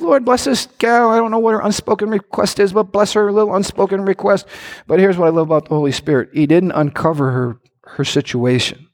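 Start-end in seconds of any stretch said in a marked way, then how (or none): 0.0-4.5 mock religious prayer. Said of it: "I could have said".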